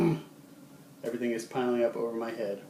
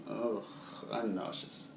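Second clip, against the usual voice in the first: queasy; 6 dB quieter, slower than usual. Shown as a demonstration. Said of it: "showing that you're sick".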